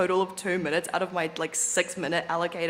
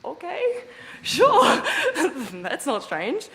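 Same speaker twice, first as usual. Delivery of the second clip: mock reply; 7 semitones higher, much slower than usual.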